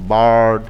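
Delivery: বার্ড, the I spoken like Bengali আ; I sounded as "a". Shown as a demonstration. Teacher shows how the I in bird sounds, clear pronunciation demo. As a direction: say বার্ড with an open "a" vowel. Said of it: "আইটা উচ্চারণ হয়েছে আর মতো".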